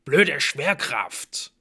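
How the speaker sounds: loud, slow pained grumble; groaning complaint. Acted. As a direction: curse it through the pain. Blitz groaning after fall.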